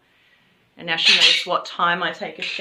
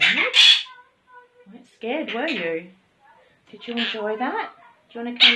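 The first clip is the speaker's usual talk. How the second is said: cooing pet talk; 3 semitones higher than usual. Real, not acted. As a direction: coo it to a bird you adore. Cooing to her pet bird.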